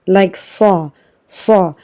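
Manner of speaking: "sa" said heavy, with the mouth opened upwards; a full, heavy "sa" from the back of the mouth. Shown as a demonstration. Teacher showing students the heavy sound of sad, bold and full. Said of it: "Now sad is a heavy letter".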